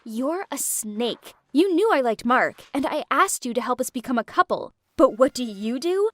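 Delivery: bitter, cutting accusations; Aaliyah's angry confession. Acted. Aaliyah confessing to Lou, bitter and a touch angry. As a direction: spit out the betrayal. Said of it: "Aaliyah interrupted us".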